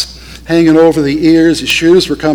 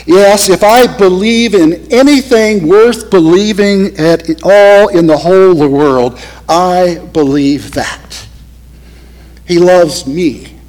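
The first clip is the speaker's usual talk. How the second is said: fervent testimony; 2 semitones higher than usual. Retold or imitated. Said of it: "he may have said something like this".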